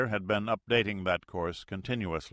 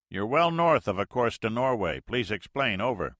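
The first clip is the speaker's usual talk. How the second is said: radio pilot; 3 semitones higher, 5 dB louder than usual. Acted.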